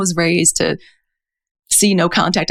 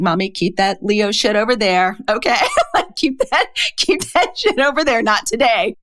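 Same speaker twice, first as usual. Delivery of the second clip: higher, playful imitation of a bossy little girl; sassy daughter; 4 semitones higher than usual. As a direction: lightly mimic the daughter setting boundaries with mom, laughing. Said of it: "she has amazing boundaries".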